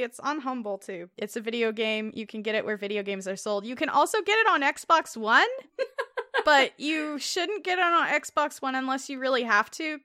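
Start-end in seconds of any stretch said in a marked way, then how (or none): 3.7-10.0 laughing. Real, not acted. Laughing at own joke.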